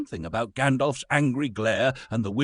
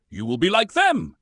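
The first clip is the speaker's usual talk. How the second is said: spat; 10 semitones higher, 6 dB louder than usual. A narrator's reading. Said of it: "he spat".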